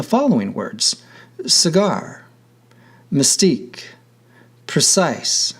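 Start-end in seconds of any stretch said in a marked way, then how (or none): 1.5-2.3 "cigar" with the weight on GAR; stress on final syllable. Shown as a demonstration. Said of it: "on the final syllable". 3.1-3.8 "mystique" stressed on STIQUE; stress on final syllable. Shown as a demonstration. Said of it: "on the final syllable". 4.7-5.5 "precise" stressed on CISE; light start, strong end on "precise"; stress on final syllable. Shown as a demonstration. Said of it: "on the final syllable".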